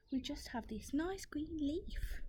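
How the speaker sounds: tiny hushed plea; timid ants. Acted. Ants answer the rat.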